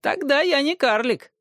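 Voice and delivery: high, wry twisted retort; wry dwarf voice. Acted. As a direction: answer with a crooked mouth. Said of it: "ответил Тирион, скривив рот". (криво усмехаясь, голосом карлика)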